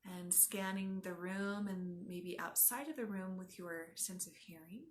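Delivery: unhurried yoga nidra guide; guided meditation. Acted. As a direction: guide them gently inward, leaving space after each instruction.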